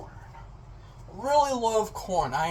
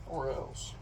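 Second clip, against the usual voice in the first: mock threat; 7 semitones lower, 7 dB quieter than usual.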